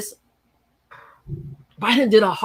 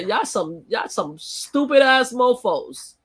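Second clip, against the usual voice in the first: scornful putdown; 2 semitones higher, slower than usual. Retold or imitated. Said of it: "this is me to the Democratic Party".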